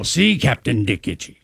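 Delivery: low ad-spokesman voice; commercial voice. Shown as a demonstration. Host repeats his catchphrase on request, commercial voice. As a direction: drop it low like a commercial pitchman. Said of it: "Say it again. I'm enjoying that".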